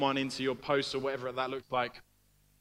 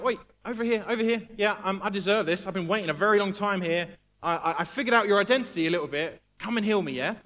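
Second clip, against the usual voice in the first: bossy and pushy, higher and louder; arrogant demand; 4 semitones higher, 5 dB louder than usual. Retold or imitated. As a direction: order Jesus around like you're owed it. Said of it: "He doesn't arrogantly boss Jesus around".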